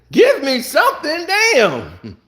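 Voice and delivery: "Give me something" through a laugh; laughing plea. Real, not acted. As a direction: laugh while begging for it.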